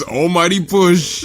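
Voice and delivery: drawn-out anime attack name; villain attack call. Retold or imitated. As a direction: call out the finishing move. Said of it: "he just goes".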